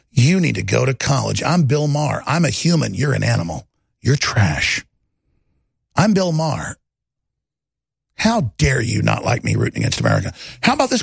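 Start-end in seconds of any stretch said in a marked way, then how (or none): 0.1-6.8 lightly mocking, lower and snooty; condescending Bill Maher. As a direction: play him looking down on everyone, only lightly. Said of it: "The condescension".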